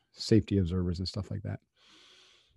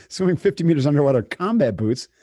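incredulous excitement; 7 semitones higher, 6 dB louder than usual. Real, not acted. Stressing the absurd challenge.

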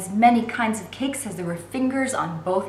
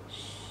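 warning shush; 20 dB quieter than usual. Acted. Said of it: "raised his fingers to his lips in a last warning".

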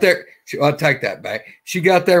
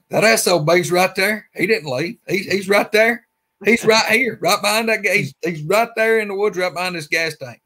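higher, hushed urgency, imitating a rattled friend; spooked retelling; 6 semitones higher than usual. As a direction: retell it like he's still shaken. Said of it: "he's pretty tripped out about that".

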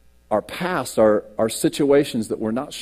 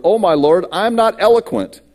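raised, pleading voice of Moses, going higher; 7 semitones higher, 5 dB louder than usual. Acted. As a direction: cry out as a nervous Moses begging the Lord. Reading Moses' plea aloud.

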